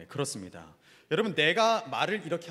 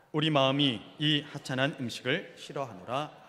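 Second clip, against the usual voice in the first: slow, lowered, measured reading aloud; scripture reading; 5 semitones lower than usual. Acted. Pastor leading the congregation in reading Numbers, slow scripture reading. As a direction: read the verses out solemnly, unhurried.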